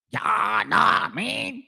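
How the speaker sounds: drawn-out mock Southern drawl; Southern accent. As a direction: imitate a Southern American accent. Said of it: "Like that Southern accent".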